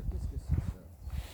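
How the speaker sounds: slow whispered question; breathed out slowly, voiceless; hushed wonder. Acted. Hunter repeating his question over the find, whispering.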